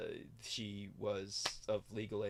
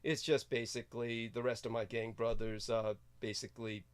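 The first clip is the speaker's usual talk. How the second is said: loud exasperated rant; 2 semitones higher, 5 dB louder than usual. Acted. Loud persona rant continues.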